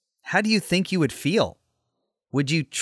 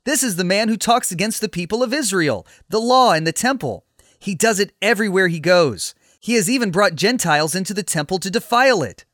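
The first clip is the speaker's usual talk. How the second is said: raised, forceful voice of an accuser; angry accusation; 4 semitones higher, 3 dB louder than usual. Acted. Accuser rousing the temple crowd against Paul, indignant accusation. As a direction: denounce him publicly, pitched up.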